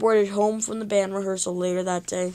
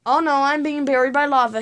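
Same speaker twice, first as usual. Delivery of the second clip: a touch louder, hammed-up panic; boy hamming up being buried by lava, mild shout; 4 semitones higher, 3 dB louder than usual. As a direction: play-act being buried alive. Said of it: "he shouted".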